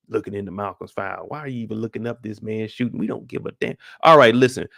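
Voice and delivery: a fed-up precinct captain barking orders at his detectives; grumbling boss laying down the law, tired and irritated; captain chewing out his squad about Burke; police captain. Acted. In-character captain rant to detectives.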